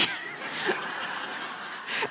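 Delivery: soft airy real laugh; quiet laugh at herself; hushed laughter; breathy laugh. Real, not acted. Laughing at own story.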